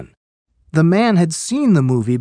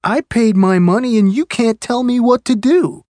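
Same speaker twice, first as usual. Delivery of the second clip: higher-pitched indignant retort; imitated arguing; 5 semitones higher than usual. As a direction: act out an argumentative moviegoer talking back. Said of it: "Their voices were getting louder and louder".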